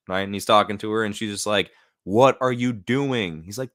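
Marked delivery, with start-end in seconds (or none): 2.0-3.4 lightly acted wife, drawn out and louder; mock disbelief, stretching each word slowly; exasperated wife. Wife confronting Stephen Grant, mock exasperated. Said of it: "Kinda like when the wife finds Stephen Grant".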